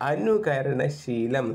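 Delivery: slow, stretched syllables; drawn-out answer. Shown as a demonstration. Teacher giving the meaning of the idiom, slowly drawn out. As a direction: draw the answer out for learners.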